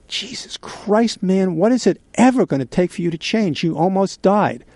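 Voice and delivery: retold anger. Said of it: "he got really angry at me".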